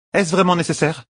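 high, embarrassed protest; protest, mortified; embarrassed queen. Acted. (reine gênée qui proteste)

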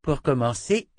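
put-on high, haughty little-girl voice; haughty child princess. A narrator's reading. Princess haughtily threatening Dena, high child voice. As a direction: lord it over her like a spoiled child.

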